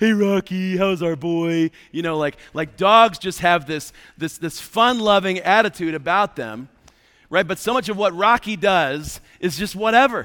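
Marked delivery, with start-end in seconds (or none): 0.0-1.7 slow doting pet voice. Showing how the dog Rocky gets greeted at home: voice for talking to a dog. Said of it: "I'm gonna use my dog voice".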